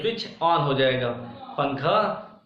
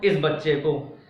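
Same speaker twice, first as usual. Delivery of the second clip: इस पर ज़ोर देकर बोलो; पहला शब्द इस ज़ोर से, बाक़ी सामान्य; stress on इस; 2 semitones lower than usual. Shown as a demonstration. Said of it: "किस बच्चे को?". (इस शब्द पर बल)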